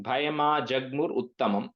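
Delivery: joined up. Shown as a demonstration. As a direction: say it briskly in one go. Quicker repeat, joined up.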